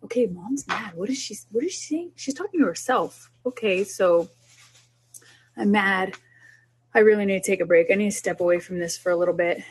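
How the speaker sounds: lightly voiced child puzzling over mom, then calm self-talk; a hint of a curious kid, then mom cooling off; child overhearing. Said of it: "you talk about it out loud".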